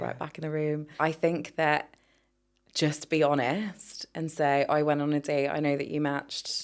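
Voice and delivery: calm, hushed therapist advice; soft spa voice. Pretend. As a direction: soothe them with gentle honesty. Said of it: "Spa voice, reactivated".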